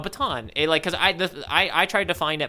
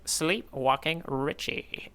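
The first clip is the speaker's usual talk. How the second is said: hushed whisper of the title; 6 dB quieter, much slower than usual. Acted. Cohost reading a title, whispering. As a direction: breathe the name like he's asleep.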